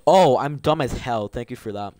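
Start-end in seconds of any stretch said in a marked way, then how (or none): 0.1-0.4 loud gasped oh that cracks. Real, not acted. Gamer reacting to power-ups, voice cracking. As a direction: let the voice crack upward. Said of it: "That voice crack, though".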